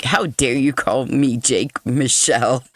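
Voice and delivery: playfully indignant defendant, close to laughing; mock attitude. Reader imagines defendant objecting to wrong name, mock attitude. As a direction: put on a little offended attitude in jest. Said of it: "attitude about him".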